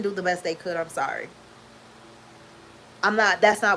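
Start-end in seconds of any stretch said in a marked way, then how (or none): 0.0-1.3 quiet. Real, not acted. Drops voice, apologizes.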